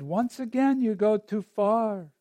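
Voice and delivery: slow, lightly voiced Jewish mother chiding; a hint of a scolding Jewish mother, drawn out. Old woodcutter chiding the villagers, lightly like a Jewish mother. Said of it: "Think of Jewish mother".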